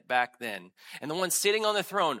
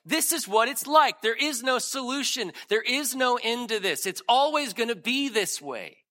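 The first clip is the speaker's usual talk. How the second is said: voiced inner despair; 5 semitones higher, 3 dB louder than usual. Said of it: "you say sometimes to yourself".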